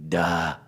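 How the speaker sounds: "Duh." as a D with a short breathy vowel; sounded-out D and H. Shown as a demonstration. Teacher sounding the last letters of Yehuda, "Duh.". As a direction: join the D and the H into "Duh.". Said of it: "The last two letters are a D and an H".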